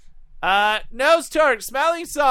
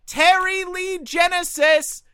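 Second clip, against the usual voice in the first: car ad announcer; 8 semitones higher, slower than usual. Acted. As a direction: sell it like a local car dealer ad. Car dealer ad parody.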